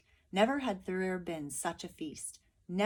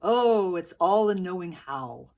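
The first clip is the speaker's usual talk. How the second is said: loud, knowing soldier; soldiers' sly farewell; 12 dB louder than usual. A narrator's reading. Soldiers bidding the village farewell, knowing. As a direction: wink through the words. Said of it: "said the".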